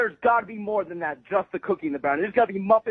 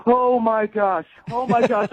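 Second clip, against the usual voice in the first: stunned, slow; slower than usual. Real, not acted. Prank revealed.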